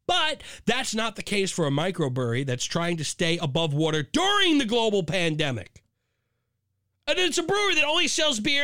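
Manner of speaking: high-pitched outraged reading; indignant rant. Real, not acted. Podcaster reading the lawsuit story, rising outrage. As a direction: read it like you're disgusted.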